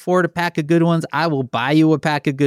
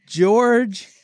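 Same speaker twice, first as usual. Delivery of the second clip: posh name drawl; 7 semitones higher, much slower than usual. Pretend. Mock posh name drawn out.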